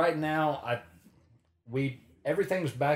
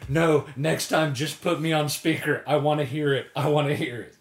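imitating eager friend; 3 semitones higher, 5 dB louder than usual. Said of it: "he was like".

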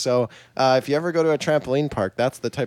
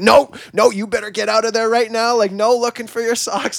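high, raised-voice telling-off; mock stern order; 8 semitones higher, 5 dB louder than usual. Trampoline employee orders customer out of the foam pit, mock stern. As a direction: imitate a bossy employee, pitched well up.

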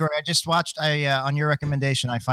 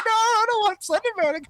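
put-on scared kid voice. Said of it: "I was just like".

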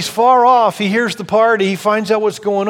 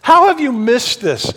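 incredulous father; 5 semitones higher, 3 dB louder than usual. Retold or imitated. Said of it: "the dad is incredulous".

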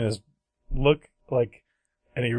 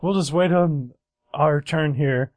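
higher, slow sing-song patience; dad voice; 5 semitones higher, 4 dB louder than usual. Retold or imitated. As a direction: cheerfully settle in to wait. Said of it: "And so he's like".

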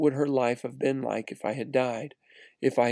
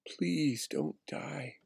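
pleading parents; 2 semitones higher, 8 dB quieter, much slower than usual. Retold or imitated. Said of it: "they were crying".

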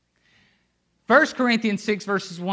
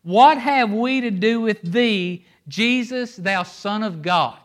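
slow, loud, higher cry of accusation; demons yelling; 4 semitones higher, 5 dB louder, slower than usual. Retold or imitated. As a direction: hurl it at Jesus like a cornered demon. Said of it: "listen to what these demons yell at Jesus".

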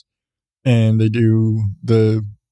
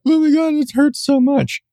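high, hammed-up wail of pain; mock wailing; 12 semitones higher than usual. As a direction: overplay the pain like a melodrama. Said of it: "it's not like a".

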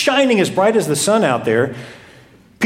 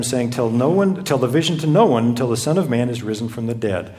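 measured, lower scripture reading voice; 3 semitones lower than usual. Acted. Reads the Matthew passage aloud.

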